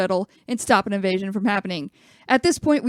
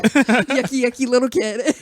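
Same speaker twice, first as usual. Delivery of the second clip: louder, grossed-out voice; 2 semitones higher, 5 dB louder, slower than usual. Retold or imitated. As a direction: recoil from the kid. Imitating Pat's disgust.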